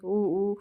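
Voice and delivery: mild imitation of a toddler's "oo oo"; imitated child's call. Narrator showing how the child kept calling, mildly imitated. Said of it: "करके हमेशा बुला रही थी".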